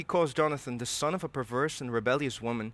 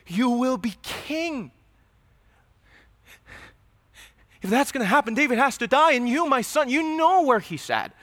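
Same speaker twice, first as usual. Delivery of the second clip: coaxing father; 8 semitones higher than usual. Acted. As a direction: win your son over, then press harder. Saul's coaxing plea to son.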